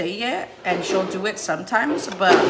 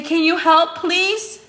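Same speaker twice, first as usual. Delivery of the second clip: put-on high, sing-song model for a toddler; modeling the words; 9 semitones higher, 6 dB louder, slower than usual. Shown as a demonstration. Mom modeling polite words for her toddler. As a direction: say it high and clear so he copies.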